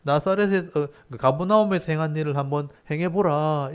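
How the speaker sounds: mildly taunting challenge; lightly acted jeer; sarcastic dare. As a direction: goad him to prove himself. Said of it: "비꼬듯이 말하는 거죠".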